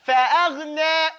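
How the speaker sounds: "فأغنى" chanted, resting briefly on the unvowelled gh; stopped ghain. Shown as a demonstration. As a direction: intone "فأغنى" with front vowels. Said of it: "the ghain is the one that stops".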